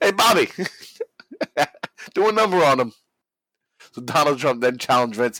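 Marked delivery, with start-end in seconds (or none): 0.0-2.9 mob-boss voice, pitched up. Retelling Donald Trump taunting Vince on the microphone: Donald Trump impression. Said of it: "like he's a fucking putting on a mob hit".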